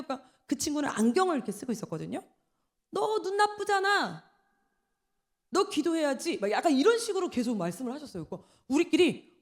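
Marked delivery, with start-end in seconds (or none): 2.9-6.4 mock pushy preacher. Imitating pushy revival preacher.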